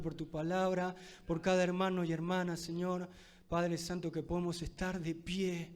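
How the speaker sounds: pastor's closing prayer over the church. Real, not acted. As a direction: pray over the congregation, tender and earnest. Preacher leads closing prayer.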